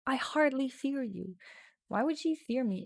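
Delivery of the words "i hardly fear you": seductive tone. Acted. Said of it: "She says in a seductive tone".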